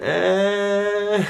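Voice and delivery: a high "Eh" in place of "ah"; Michigan eh. Shown as a demonstration. The patient at the doctor's, answering with "Eh". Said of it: "It's more of an".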